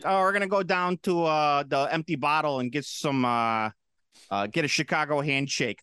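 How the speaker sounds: mock Chicago accent, lightly done; hammed-up Chicagoan bro voice; fake Chicago accent. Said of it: "making a fake accent".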